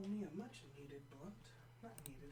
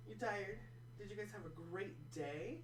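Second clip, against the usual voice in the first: cooing questions to the dog; lifted voice, rising at the end; pet talk; 3 semitones higher than usual. Real, not acted. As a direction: fuss over a tired pet. Talking to the dogs.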